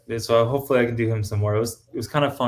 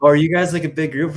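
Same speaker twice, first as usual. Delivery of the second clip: voicing a stranger; 7 semitones higher, 6 dB louder than usual. Strangers asking, voiced higher louder.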